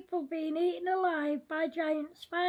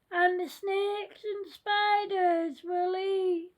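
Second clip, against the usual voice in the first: scary voice. Acted. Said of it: "said the scary voice".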